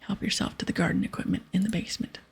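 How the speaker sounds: lightly voiced pirate giving orders; pirate captain. Captain sending the hero to grow blindweed, lightly voiced pirate. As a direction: hand out the quest like a ship's captain.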